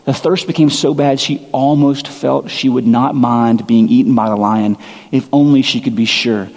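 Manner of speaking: put-on measured read-aloud of a children's book; reading Narnia to the congregation, a gently measured story voice. Reads Narnia passage aloud.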